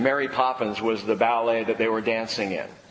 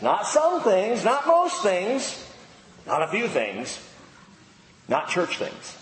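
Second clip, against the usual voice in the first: emphatic; 5 semitones higher, slower than usual. Shown as a demonstration. Preaching emphasis list.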